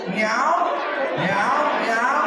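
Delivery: light mock meowing like a cat; playful cat meows. Fitness coach leading the class in a cat move, mock meowing. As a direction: meow along like a playful cat.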